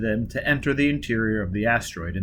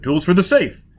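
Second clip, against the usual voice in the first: shouting; 6 semitones higher, 5 dB louder than usual. A narrator's reading. Still shouting.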